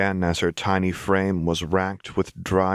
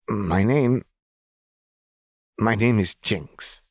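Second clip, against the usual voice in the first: slightly higher, slow, savoring the name; Jinx, proud; 3 semitones higher, slower than usual. A narrator's reading. Jinx claiming her name to Silco, proud and slow. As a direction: try the new name proudly. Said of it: "wide grin".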